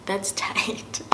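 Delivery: a touch of gushing, retold; retold excitement. Traveler learns about truckers' showers, mildly excited retelling. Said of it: "I was so excited".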